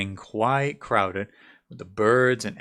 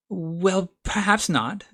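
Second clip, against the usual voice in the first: soothing; 8 semitones higher, slower than usual. Acted. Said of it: "in a soothing tone".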